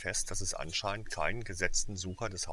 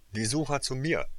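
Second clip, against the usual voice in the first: a high, louder captain's call; captain calling the seekers over, loud; 7 semitones higher, 6 dB louder than usual. A narrator's reading. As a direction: summon the seekers across the pitch. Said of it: "rief soeben Flint laut".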